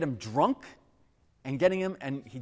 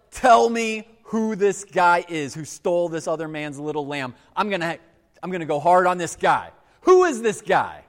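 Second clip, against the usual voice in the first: louder, indignant retold demand; outraged king; 7 dB louder than usual. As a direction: play David's mock fury, rising toward the last question. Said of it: "And David gets outraged".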